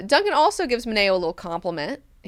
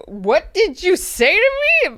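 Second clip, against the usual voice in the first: loud, higher, threatening; about to lose it; 13 semitones higher, 8 dB louder than usual. Retold or imitated. Duncan confronts Siona over her insult, loud and threatening. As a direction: square up, ready to snap. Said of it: "Doug is getting ready to lose it".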